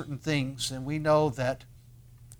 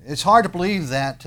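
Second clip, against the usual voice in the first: 1 exclaimed wonder; 4 semitones higher, 8 dB louder than usual. Real, not acted.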